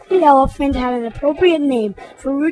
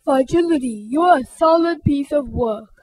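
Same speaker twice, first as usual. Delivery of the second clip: calling out. Acted. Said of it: "Rudy called".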